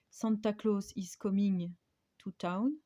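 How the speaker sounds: English read with a French accent. Real, not acted. Reading an English stamp sentiment to viewers, French accent. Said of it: "mon accent anglais n'est pas terrible".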